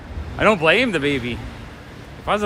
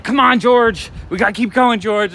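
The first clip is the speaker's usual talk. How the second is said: mock call to a lagging kid, louder and higher; parent calling; 5 semitones higher, 3 dB louder than usual. A toy shop owner imitating a parent calling their kid down the street. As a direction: hurry a dawdling child along. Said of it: "they start yelling like".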